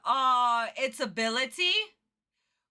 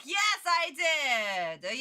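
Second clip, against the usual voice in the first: mock smug reply; much slower than usual. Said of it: "and be like".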